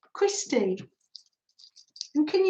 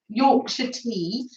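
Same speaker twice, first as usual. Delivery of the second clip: slow, tentative stab at Yorkshire; attempted Yorkshire accent; slower than usual. Asking for a cup of tea, attempted Yorkshire accent. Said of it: "I can't do a Yorkshire accent".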